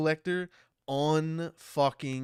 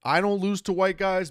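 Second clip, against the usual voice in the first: punched louder and higher; emphatic; 5 semitones higher, 6 dB louder than usual. Acted. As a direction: hit white hard. Repeats catchphrase louder.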